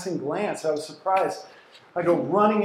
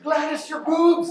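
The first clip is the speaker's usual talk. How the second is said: whisper yelling; 12 semitones higher, 7 dB louder than usual. Retold or imitated. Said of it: "whisper yell".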